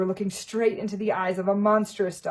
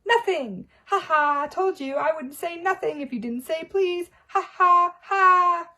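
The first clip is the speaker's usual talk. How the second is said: high, loud poltergeist cackle; much louder triumphant jeering; gleeful mocking laugh; 11 semitones higher, 9 dB louder than usual. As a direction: crow over the trick. Peeves mocks Filch.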